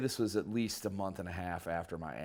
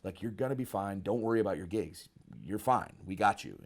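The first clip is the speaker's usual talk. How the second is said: amused reassurance; 4 semitones higher, 5 dB louder than usual. Retold or imitated. Friends reassure him about his gigs.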